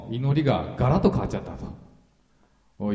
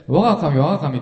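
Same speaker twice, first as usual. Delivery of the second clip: retold cry; 4 semitones higher, 5 dB louder than usual. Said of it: "という時はもう裁かれる立場".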